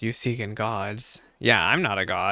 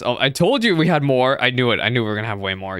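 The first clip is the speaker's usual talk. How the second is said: loud, quick gloating; fast told-you-so; excited; 5 dB louder, faster than usual. Real, not acted. Gloating about more quests.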